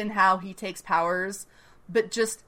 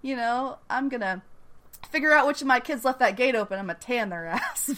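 mock Southern mom; 4 semitones higher than usual. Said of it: "She's just like".

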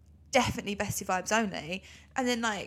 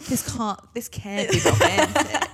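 laughing; 2 semitones higher, 6 dB louder, slower than usual. Real, not acted. To her co-host, quoting the catchphrase while laughing. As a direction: choke the words out through giggles.

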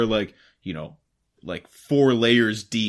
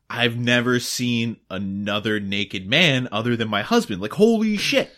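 shocked Victorian woman. Retold or imitated. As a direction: squeal it like a prim lady. Voicing screaming woman.

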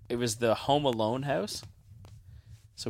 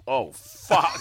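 startled whispered curse; 6 semitones higher, 6 dB louder than usual. Retold or imitated. Imagined sleepwalker waking up.

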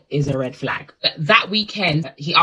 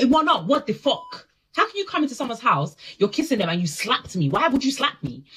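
high, fast outraged questions; mock indignation; 5 semitones higher than usual. Confronting him in her retelling, high and outraged. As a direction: demand answers, pitched up. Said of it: "I said".

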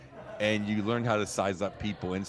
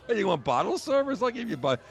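tough guy; 11 semitones higher than usual. Retold or imitated. Voicing a bar tough guy.

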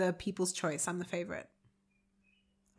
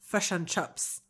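slow Kiwi vowels on "Fish and chips"; New Zealand accent; 3 semitones lower, 3 dB quieter, slower than usual. Pretend. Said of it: "this is my New Zealand one".

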